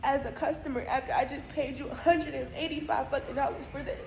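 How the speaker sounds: letting out her anger at the stylist; angry rant. Real, not acted. Customer venting at the stylist about paying for a bad ponytail, heated.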